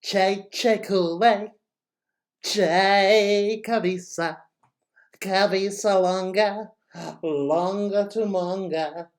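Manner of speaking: a lightly crazy, very slow drawn-out chant; teacher demoing a mild crazy-voice chant. Shown as a demonstration. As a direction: go a little wacky with the chant. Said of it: "Or we could go in a crazy voice".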